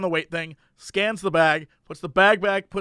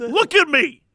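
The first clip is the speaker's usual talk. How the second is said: higher, indignant mock customer; mock indignation, pitched up; pissed off; 5 semitones higher, slower than usual. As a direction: imitate an affronted man, voice pushed up. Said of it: "he's pissed now. He's, like, furious".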